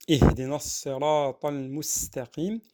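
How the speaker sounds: full, sustained tajwid chanting; Quran recitation. Shown as a demonstration. Teacher reciting the verses for learners, sustained recitation. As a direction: recite evenly, holding the long vowels.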